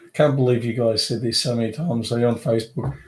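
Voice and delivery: stuffy voice from a head cold. Real, not acted. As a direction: sound a little blocked up with a cold. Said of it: "I sound funny. I've got a cold".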